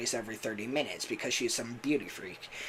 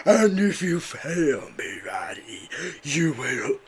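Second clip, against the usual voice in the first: whispered villain threat; Burntrap's threat; 2 semitones higher, slower than usual. Retold or imitated. Villain whispering a threat to Vanny, menacing. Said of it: "say his famous line".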